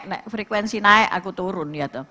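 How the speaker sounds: ordinary talk, nothing marked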